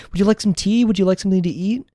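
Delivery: a hint of a posh British host offering tea; British hostess. Offering a visitor tea in a light British accent. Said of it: "a trashy British impression".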